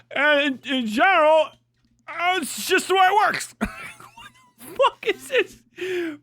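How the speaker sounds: mocking nineties movie character. Mimicking the co-host as a nineties movie character, high and silly. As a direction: parrot him in a silly high voice. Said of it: "you are a character from a nineties movie".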